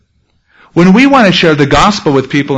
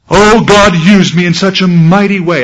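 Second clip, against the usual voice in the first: mock bragging; 4 semitones higher than usual. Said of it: "so braggadocious".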